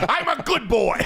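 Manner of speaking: mock little boy voice. Mocking the son's line.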